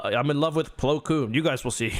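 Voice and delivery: lightly voiced boastful writer; put-on writer voice. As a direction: imitate a smitten writer, only slightly put on. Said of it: "I don't know why I'm giving him that voice".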